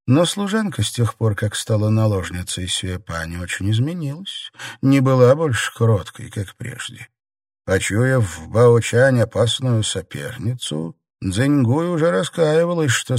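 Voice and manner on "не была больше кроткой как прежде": usual speaking voice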